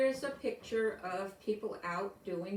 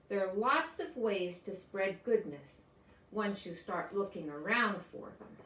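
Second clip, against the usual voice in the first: storybook reading. A narrator's reading. Reads picture book to class.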